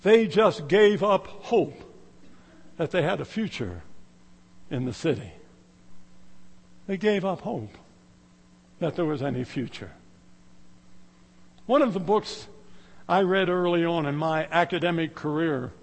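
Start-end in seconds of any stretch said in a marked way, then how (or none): 0.0-9.9 somber answer. Retold or imitated. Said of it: "The host said".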